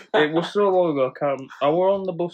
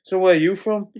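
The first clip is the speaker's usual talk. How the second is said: mock drunk woman; 5 semitones higher, 7 dB louder than usual. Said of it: "and she's like".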